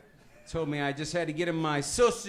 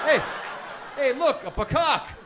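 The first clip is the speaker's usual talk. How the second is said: mock pointing out; 9 semitones higher, 7 dB louder than usual. Shown as a demonstration. Mocking pecan by analogy.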